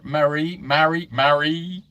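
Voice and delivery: trying "Marie" out several ways; unsure pronunciation. Real, not acted. Host struggling with a viewer's name, unsure pronunciation. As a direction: feel out how to say "Marie". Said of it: "difficulty pronouncing your name".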